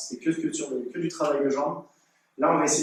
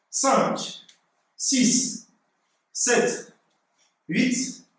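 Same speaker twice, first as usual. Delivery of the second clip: counting while doing push ups; 7 semitones higher, much slower than usual. Real, not acted. Coach counting push-up reps.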